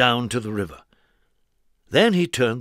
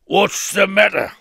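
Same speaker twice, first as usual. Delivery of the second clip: higher, louder kindly concern; concerned Mister Strong; 7 semitones higher, 6 dB louder than usual. Acted. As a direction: ask with bright concern. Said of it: "asked Mister Strong".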